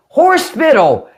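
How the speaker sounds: HOSPITAL as "horse-pittle", high then falling; Southern pronunciation. Shown as a demonstration. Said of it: "you right on that hospital shit".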